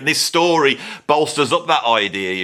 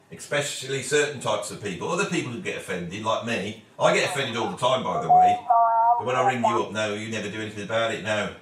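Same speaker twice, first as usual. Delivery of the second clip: much softer, murmured into the phone; soft phone talk; 5 dB quieter than usual. Real, not acted. Quiet phone call.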